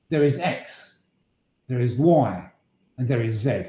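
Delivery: firm, falling, final statements; an authoritative cool blue voice; conclusive tone. Shown as a demonstration. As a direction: lay it down as undeniable fact, no room for argument. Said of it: "express them in a very conclusive tone".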